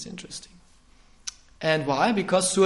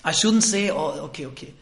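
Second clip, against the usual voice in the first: mock apology. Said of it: "He said".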